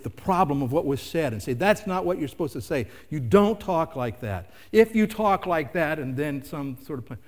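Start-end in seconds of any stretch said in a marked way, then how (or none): 1.5-6.0 lightly acted scolding, firm and emphatic; stern parent. Parent correcting a child's bad words, mildly stern scolding. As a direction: lay down the rule like a parent.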